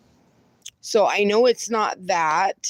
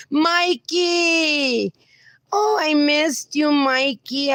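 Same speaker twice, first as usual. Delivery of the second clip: excited greeting shout; 5 semitones higher, much slower than usual. Real, not acted. Host thrilled to see viewer Mikey return, calling his name. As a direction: call out with joy at seeing him.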